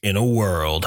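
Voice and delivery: deep, dramatic trailer narrator; movie trailer voice. Pretend. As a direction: announce it like an epic film trailer. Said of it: "movie trailer voice".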